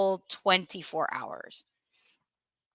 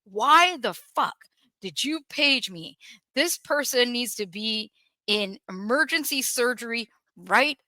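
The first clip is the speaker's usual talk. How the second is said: retold angry scream; 2 semitones higher than usual. Consultant cursing at the ER over being paged, mock angry yell. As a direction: imitate an irate doctor without really shouting. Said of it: "he starts screaming".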